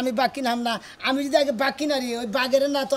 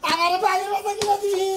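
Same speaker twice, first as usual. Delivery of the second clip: put-on high, sustained childish demand; insistent whining demand; 6 semitones higher than usual. Son demanding a tiger cub from his parents, whining. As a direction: whine it out, pitched well up.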